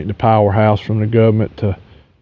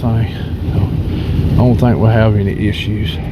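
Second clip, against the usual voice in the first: sniffly voice. Real, not acted. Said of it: "I'm sorry about the sniffling".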